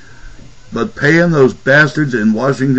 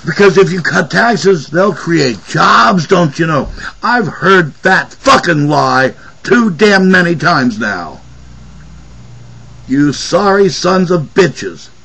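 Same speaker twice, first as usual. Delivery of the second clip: angry; 3 semitones higher than usual. Real, not acted. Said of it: "Yes, I'm angry".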